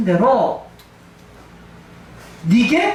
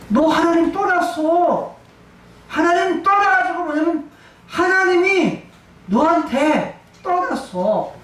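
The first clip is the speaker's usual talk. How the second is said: slow, higher mocking taunt at Saul; a hint of a jeering spirit, slow and raised; 6 semitones higher than usual.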